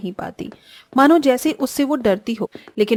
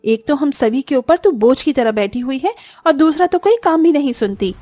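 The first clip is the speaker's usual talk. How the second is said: sharp, higher taunting scold; scolding sister-in-law; 4 semitones higher, 3 dB louder than usual. Acted. Sister-in-law taunting Disha, sharp scolding. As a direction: belittle her with every word.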